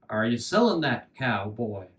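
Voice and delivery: low, lightly voiced old fiddler; a hint of an old man's voice. A narrator's reading. Old fiddler stops by the boy, low voice. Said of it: "the fiddler asked".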